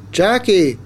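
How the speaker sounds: high call, falling at the end; mother calling her child's name. A narrator's reading. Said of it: "Mom called".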